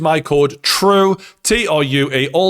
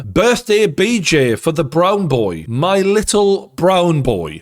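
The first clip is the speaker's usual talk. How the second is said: 1 mock seductive tease; 2 semitones higher, much slower than usual. Boss teasing on birthday.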